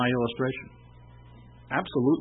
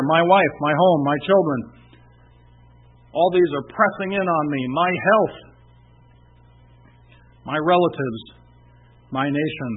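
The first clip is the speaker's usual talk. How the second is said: each worry pushed out louder, building and then easing; pressured litany; 3 dB louder than usual. Retold or imitated. Preacher voicing a worried listener's burdens, building pressured litany. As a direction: pile the worries on like they're crushing you.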